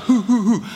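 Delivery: quick mock monkey hooting; monkey hoots. Kid at the bus stop hooting like a monkey for the bullies, mock monkey hoots. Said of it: "burst into an impression of a monkey".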